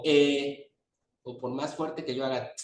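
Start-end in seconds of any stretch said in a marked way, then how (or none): 0.0-0.7 drawn-out E. Shown as a demonstration. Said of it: "nunca va a sonar como A".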